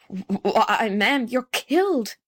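slow, halting gasp of horror. A narrator's reading. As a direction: stammer it out, trembling with shock. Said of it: "he gasped".

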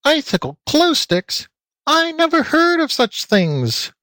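very high little piggy voice; squealing piglet. A narrator's reading. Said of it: "squealed Floppy".

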